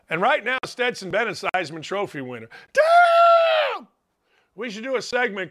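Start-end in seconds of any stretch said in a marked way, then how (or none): 2.7-3.9 very high, loud yell; hollered damn. Real, not acted. Host reenacting his reaction watching the team, yelling. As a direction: let it rip like a superfan. Hollers catchphrase about the Heisman.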